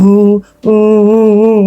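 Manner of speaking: slow, drawn-out imitated sobbing hums; mock crying wails. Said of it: "गला फाड़ कर अंदर हूं".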